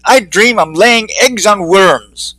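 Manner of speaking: slow, faraway musing; dreamy Leslie. Acted. Leslie tells Eugene her dreams, slow and dreamy. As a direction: drift through it slowly. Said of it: "Leslie said".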